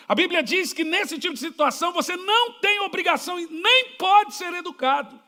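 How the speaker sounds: ordinary talk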